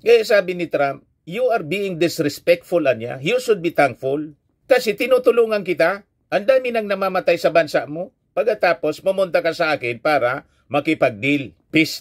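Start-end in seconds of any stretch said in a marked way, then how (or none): 1.3-12.0 higher-pitched, mildly indignant scolding; imitated telling-off in a raised pitch; retold rebuke. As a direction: reproach an ungrateful guest, pitched up. Acting out Trump rebuking Zelensky.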